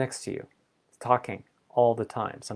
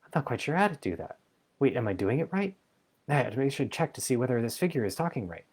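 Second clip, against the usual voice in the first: higher, rambling inner chatter, a touch of fuss; chatty roommate voice; 4 semitones higher than usual. Retold or imitated. The mind as a roommate talking to itself, higher and rambling. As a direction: babble like a restless roommate. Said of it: "It's your roommate saying".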